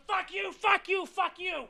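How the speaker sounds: high, mocking jabs; mock insults. Fighters trading insults, high mock yell. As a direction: toss it like a schoolyard taunt. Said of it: "they were going".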